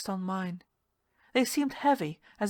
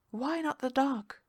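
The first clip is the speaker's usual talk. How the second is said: drawn-out, higher coaxing lure; slow, higher siren's invitation; slow, higher seductive woman; 6 semitones higher than usual. Acted. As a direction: tempt him toward the dark. Seductive sea-devil voice.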